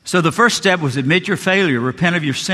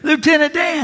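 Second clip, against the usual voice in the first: joyful Forrest Gump shout, much higher; Forrest Gump calling out; 11 semitones higher than usual. Retold or imitated. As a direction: call out like Forrest spotting his friend on the dock. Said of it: "scene from the Forrest Gump movie".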